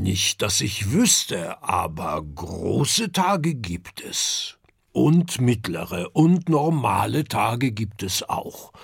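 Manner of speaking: father musing to his son about the big day; thoughtful father. Acted. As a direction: ponder it out like a patient father.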